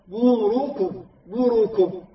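"بوركم" أي "مُرُكم" بضمتين كاملتين متساويتين; بيّن ضمة الميم والراء في "بوركم"; ضمّات تامّة. Shown as a demonstration. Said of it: "هكذا تقرأها". (مقطع "بوركم" متأنٍّ بلا خطف)

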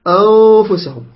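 أنفسهم with a held ن shared by nose and mouth; balanced ikhfa. Shown as a demonstration. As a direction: hum the hidden ن of أنفسهم evenly. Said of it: "فهكذا".

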